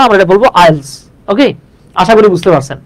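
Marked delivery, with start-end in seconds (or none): 0.0-0.9 আইএলস said as one word; আইএলস read as a single word. Shown as a demonstration. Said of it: "আইইএলটিএস বলবো না".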